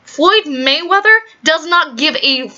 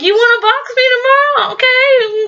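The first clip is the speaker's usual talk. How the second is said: mock amused acceptance; 10 semitones higher than usual. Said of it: "he's like".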